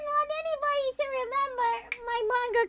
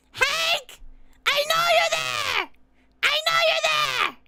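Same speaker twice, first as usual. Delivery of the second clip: mock-angry calling out; 4 semitones higher than usual. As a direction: call out the culprit in playful outrage. Calling out a viewer over picture.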